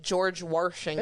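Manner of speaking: Washington said as "Warshington"; Washington with added R. Retold or imitated. Mocking people who add an R, Washington as "Warshington". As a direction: slip an R into Washington. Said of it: "people add an R".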